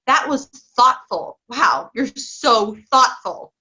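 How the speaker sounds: slow, sincere, naming the trait; sincere praise. Shown as a demonstration. Parent coach showing how to label a child's kindness, slow and sincere. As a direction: dwell on the word thoughtful. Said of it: "as opposed to saying".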